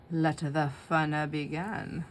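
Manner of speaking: slow spooky Halloween voice; drawn out like a storybook villain; creepy voice. Acted. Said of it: "Can you tell by my voice?".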